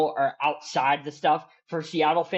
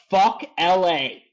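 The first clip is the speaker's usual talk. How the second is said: louder, higher, hammered-out fan outburst; real heated fan fury, voice up and pushed hard; emotional rant; 3 semitones higher, 4 dB louder than usual. Real, not acted. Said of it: "I'm sorry I got emotional".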